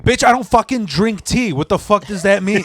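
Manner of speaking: hammed-up baffled fury; mock furious. Retold argument with liar drummer.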